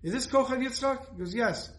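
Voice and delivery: lightly voiced businesslike man pressing his point; mock no-nonsense caller on the phone; no-nonsense donor. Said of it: "obviously a no-nonsense person".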